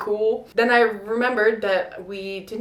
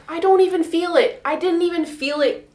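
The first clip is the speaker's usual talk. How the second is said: raised, louder amazement at feeling nothing; amazed relief; 8 semitones higher, 5 dB louder than usual. Retold or imitated. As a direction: marvel that it didn't hurt. Retelling catheter relief, excited.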